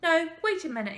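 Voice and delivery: high, loud call to halt; urgent interjection. A narrator's reading. Man halts the ballerina at the door, urgent interjection. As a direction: stop them before they leave.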